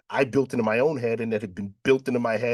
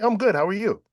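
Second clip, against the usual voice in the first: much higher, bright "I'm good" tossed off; breezy retold reply; 10 semitones higher, 4 dB louder than usual. To his sister on the phone, a high, breezy brush-off. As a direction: chirp it back like nothing's wrong.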